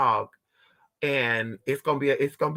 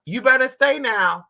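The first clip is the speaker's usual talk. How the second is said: stern warning; 8 semitones higher, 4 dB louder than usual. Retold or imitated. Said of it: "I don't gotta say".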